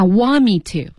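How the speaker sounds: "want me to" run together, T of want dropped; linked sounds. Shown as a demonstration. Teacher points learners to "want me to", linked. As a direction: slide "want" into "me" without the T. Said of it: "这是连读哦".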